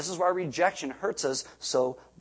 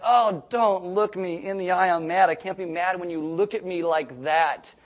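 mock-mad protest, louder and higher; a little mad; 3 semitones higher, 4 dB louder than usual. Mad husband protesting his wife's look, a little mad. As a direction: imitate a flustered husband trying to stay mad. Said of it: "he's a little mad".

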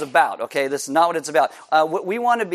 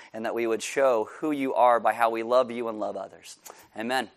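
leading prayer; 4 semitones lower than usual. Real, not acted. Leads a prayer.

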